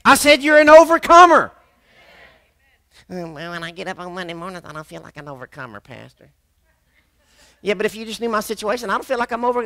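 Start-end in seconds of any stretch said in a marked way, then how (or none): 3.1-6.3 doubting churchgoer. Retold or imitated. 7.6-9.7 whiny excuse. Retold or imitated. Mimics doubting churchgoer.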